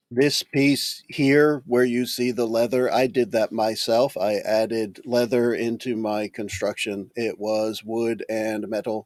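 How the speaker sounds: lightly voiced, deliberate construct; measured, literal machine-like character; matter-of-fact construct. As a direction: explain your build piece by piece, softening at the end. Player voices the construct Rolex.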